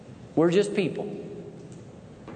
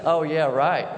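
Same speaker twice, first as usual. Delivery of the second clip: mock sarcastic yeah right; slower than usual. Preacher voicing the dog barking from safety, mock scoffing. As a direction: scoff it like a brave little dog. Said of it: "I was like".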